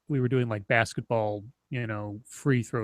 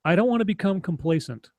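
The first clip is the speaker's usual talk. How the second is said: preschooler; 5 semitones higher than usual. Retold or imitated. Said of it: "in my little kid voice".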